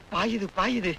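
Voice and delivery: soft murmur to himself; quiet aside. Acted. Husband to himself about money's effect, soft murmur. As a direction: drop it under your breath. Aside as wife turns sweet.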